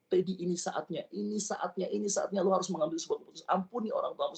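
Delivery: imitating a relentless inner voice; insistent urging. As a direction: press the point urgently, repeating it. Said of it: "Tuhan paksa terus saya".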